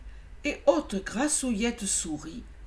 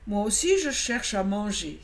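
poliment. Acted. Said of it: "dit-il poliment".

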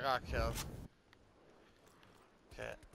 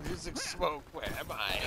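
imitating game soldier. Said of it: "That's what he just said".

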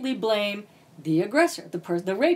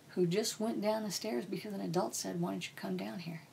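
gentle plea, dropping softer to near hush; softening plea; 6 dB quieter than usual. Retold or imitated. Speaker retells pleading with the girl's mother, fading softer. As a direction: ease her toward pity, fading softer.

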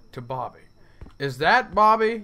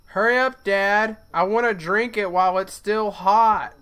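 lightly voiced whiny child, higher; impatient kid voice; 3 semitones higher, 5 dB louder than usual. Bobby nagging his dad for hot chocolate, whiny kid. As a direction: nag like a little boy wanting his cocoa.

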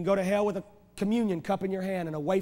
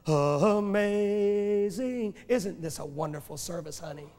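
drawn-out, lightly voiced pious Amazing; hammed-up sweet talk to the wife; mock pious churchgoer; much slower than usual. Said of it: "they were going".

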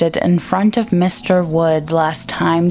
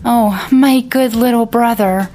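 crying out; 5 semitones higher, 3 dB louder than usual. A narrator's reading. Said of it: "Layla stood in front of him and cried".

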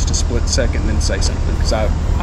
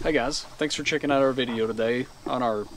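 soft greeting with a hint of Darth Vader; quiet, slightly lowered Vader-like intro; 9 dB quieter than usual. Real, not acted. Thanking viewers for checking out the video, Darth Vader voice. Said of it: "like, Darth Vader voice".

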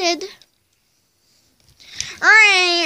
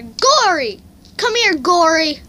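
loud call to someone across; 3 semitones higher, 6 dB louder than usual. Pretend. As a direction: shout the name to summon her. Calling her sister over.

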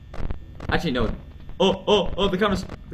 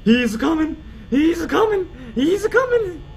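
climbing, louder warning cry; mounting alarm; 9 semitones higher, 5 dB louder than usual. Real, not acted. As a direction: sing out each repeat higher. Monster approaching, chant escalates.

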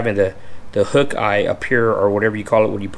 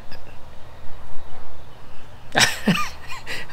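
emotional laugh; 3 dB quieter than usual. Real, not acted. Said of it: "I'm getting emotional".

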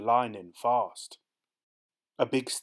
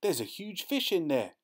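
put-on high boyish exclamation; excited yell; 8 semitones higher than usual. A narrator's reading. Boy spotting a fish in the ditch, excited high yell. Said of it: "Charlie yells".

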